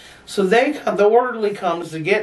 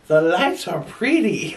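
dreamy druggy; slower than usual. Retold or imitated.

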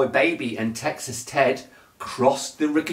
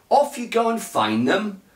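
Sheriff Pa voice; 7 semitones higher than usual. A narrator's reading. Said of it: "said Sheriff Pa".

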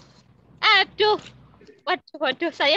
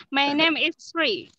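slow read; much slower than usual. Shown as a demonstration. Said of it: "coba lebih cepat".

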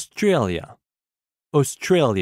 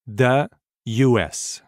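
slow repeat; 2 semitones lower, much slower than usual. Shown as a demonstration. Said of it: "Écoutez et répétez après moi".

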